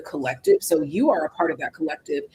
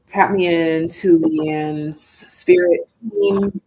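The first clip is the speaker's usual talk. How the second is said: invocation prayer; 3 dB louder, slower than usual. Real, not acted. Invoking spirit team for reading.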